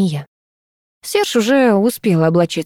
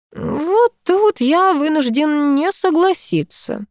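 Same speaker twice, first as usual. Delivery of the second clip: delicate objection; 9 semitones higher, slower than usual. A narrator's reading. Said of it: "деликатно кашлянув".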